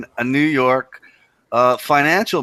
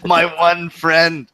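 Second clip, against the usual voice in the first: slow, laughing tease; amused mock echo; 2 semitones higher, much slower than usual. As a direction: repeat it teasingly, drawing it out through a laugh. Teasing host about his only friend.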